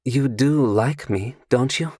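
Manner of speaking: coy and sure of herself; seductive stranger. Acted. Seductive stranger asks Carter about his drink, coy. Female character voice.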